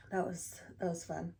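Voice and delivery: groggy morning voice, barely awake. Real, not acted. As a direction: speak like you just woke up. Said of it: "I have such a morning voice".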